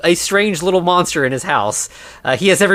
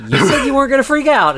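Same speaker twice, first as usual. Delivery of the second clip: mock reproach; 11 semitones higher, 3 dB louder, faster than usual. Others reproach John for freaking out.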